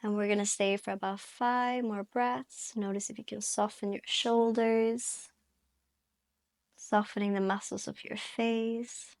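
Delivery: calm yoga instruction with long pauses; guided meditation. Real, not acted. Yoga teacher guiding students into their breath, calm guided meditation. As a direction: guide gently, leaving space to breathe between phrases.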